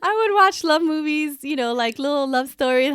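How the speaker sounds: laughing. Real, not acted. Laughing about sappy movies.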